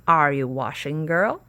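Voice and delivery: loud call through a door; witch calling. Acted. Witch calling to Sasha through the door, loud.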